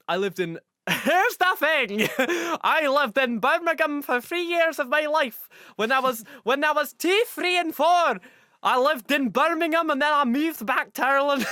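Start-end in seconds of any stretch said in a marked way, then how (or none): 0.9-2.1 high, loud, slow Brummie drawl; hammed-up Birmingham accent; mock Birmingham accent. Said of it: "make fun of my accents". 2.6-11.5 high, loud singsong Brummie caricature; comically heavy Birmingham accent; mock Birmingham accent. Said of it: "I can make fun of my, my, my, my accents".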